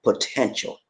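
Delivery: "potential" set apart after a pause; stress on potential. Real, not acted. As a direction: land deliberately on "potential". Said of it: "I want to stress that word".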